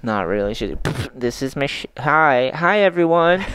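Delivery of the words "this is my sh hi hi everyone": megaphone announcement. Retold or imitated. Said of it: "The lady came on the fucking megaphone".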